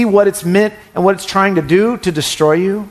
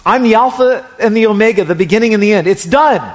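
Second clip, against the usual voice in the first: voicing God; 5 semitones higher, 3 dB louder than usual. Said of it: "notice the way he said that to us".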